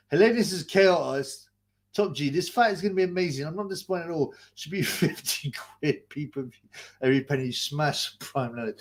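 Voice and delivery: mock-enthusiastic fight promo voice; sarcastic hype. Streamer mocking a fight promo, sarcastic hype. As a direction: sell the fight with a sarcastic wink. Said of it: "obviously, being sarcastic".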